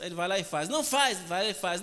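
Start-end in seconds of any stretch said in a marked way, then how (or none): 0.7-1.2 quick high-pitched mock scolding; exasperated warning. Mother keeps catching her son at it, exasperated warning.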